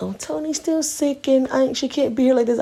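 high, sing-song mimicry of a caller; imitated phone caller. Daycare-style call about sick Tony, imitated caller voice. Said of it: "they were gonna call and be like".

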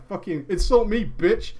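usual speaking voice

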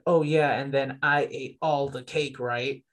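slow mock scoff, sarcastic; scoffing denial. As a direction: scoff at it like it's absurd. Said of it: "when they try to scoff at it".

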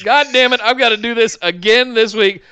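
mock weary officiant; exasperated Efficient guy. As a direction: sigh it out like a put-upon man. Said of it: "he's like".

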